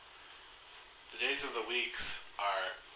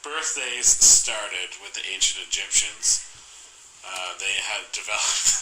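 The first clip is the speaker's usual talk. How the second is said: documentary voice. Acted. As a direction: read it like a history documentary. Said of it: "my documentary voice".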